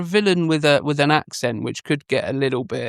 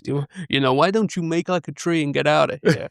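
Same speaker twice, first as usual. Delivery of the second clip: not attempting the impression; 2 semitones higher than usual. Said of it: "I'm not gonna attempt the impression".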